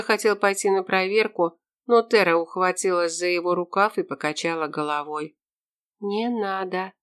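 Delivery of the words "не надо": soft, barely voiced words; just move the lips; mouthed whisper. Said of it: "пошевелила она губами".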